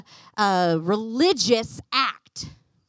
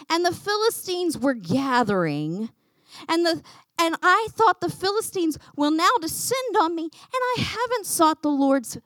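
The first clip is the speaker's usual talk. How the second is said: lightly voiced whining excuse; whiny four-year-old; 4 dB louder than usual. King excusing himself to the prophet, lightly whiny. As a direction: make excuses like a whiny child, stretching the blame. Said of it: "a whiny four-year-old".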